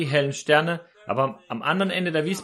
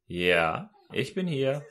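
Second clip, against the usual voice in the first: a hint of God's calm answer; voice from above; 4 dB quieter, much slower than usual. A voice answers the hanging man, lightly voiced God. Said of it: "meldete sich eine Stimme".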